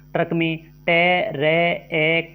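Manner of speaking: ट्रक split slowly into टे, रे, ए; drawn-out sound-by-sound spelling of ट्रक as टे… रे… ए. Shown as a demonstration. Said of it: "जैसे व्याख्या देखें".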